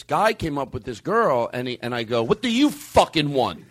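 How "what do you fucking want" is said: slow, emphatic mock-hostile question; mock aggression. Comic challenges a passer-by at the truck, mock aggressive. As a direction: play the rude ice cream man. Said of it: "So you take it aggressively".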